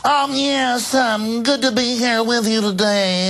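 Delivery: high, drawn-out mocking impression; slow, high put-on voice of a halting speaker; Urkel. Mocking Obama before a white audience, Urkel-like. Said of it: "he talks like Urkel".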